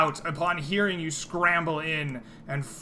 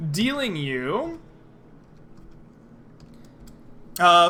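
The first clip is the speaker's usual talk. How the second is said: game master narration; 3 semitones higher, 4 dB louder than usual. Acted. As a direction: stretch the key words as the trap springs.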